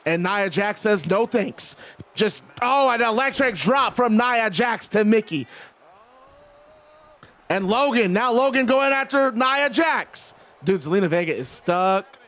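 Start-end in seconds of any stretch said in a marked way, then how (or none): 0.1-10.3 animated ringside announcer call; live wrestling play-by-play. Acted. Streamer calls the ladder climb and drops, play-by-play. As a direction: follow the action as a match commentator.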